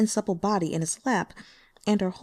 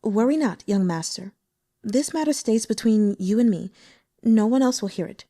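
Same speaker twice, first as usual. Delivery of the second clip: understanding; 3 dB louder than usual. Acted. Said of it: "said understandingly".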